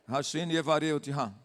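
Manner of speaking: pastor teaching the congregation a Hebrew blessing, carefully. Shown as a demonstration. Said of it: "Hashem Yevareh é Deus abençoe".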